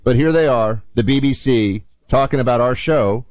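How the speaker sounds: fake British accent. Radio host introducing the BBC clip in a hammed-up British accent. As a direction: announce the clip like a stuffy BBC British presenter. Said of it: "your British accent, Buck".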